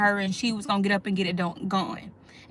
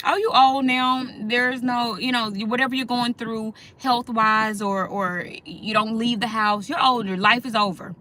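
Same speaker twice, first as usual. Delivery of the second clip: dismissive mock voice. Mocking how people treat the elderly.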